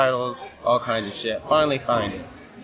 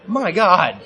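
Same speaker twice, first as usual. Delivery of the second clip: higher, louder, panicked cry of burning pain; retold pain panic; 8 semitones higher, 5 dB louder, slower than usual. Wrestler yelling in the ring as pepper burns his face, panicked. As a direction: yelp like your face is on fire. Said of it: "So now I'm like".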